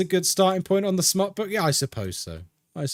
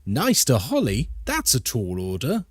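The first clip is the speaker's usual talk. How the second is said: impression of Ghosty. Streamer lightly imitating Ghosty's reluctant reply, mild smugness. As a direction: grudgingly agree in a hint of a smug voice. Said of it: "That was my best impression of Ghosty".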